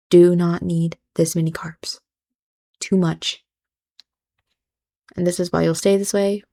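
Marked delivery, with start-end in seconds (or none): 0.1-3.4 whispered repeat. Real, not acted.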